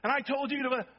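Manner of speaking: imitating a high, loud scolding mom; mom still yelling. Pastor imitates mom scolding before the phone rings, high and loud. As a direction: keep scolding, then get cut off. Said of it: "My mom would be yelling".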